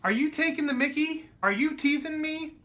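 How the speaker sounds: a light imitation of the English friend asking if he's being teased; mock British friend. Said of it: "Then you would say to me".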